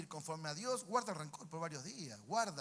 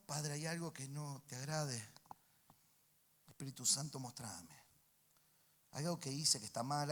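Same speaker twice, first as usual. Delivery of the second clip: modelled prayer. Acted.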